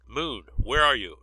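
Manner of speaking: angry shout over the radio; shouting into comlink. A narrator's reading. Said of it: "he started shouting".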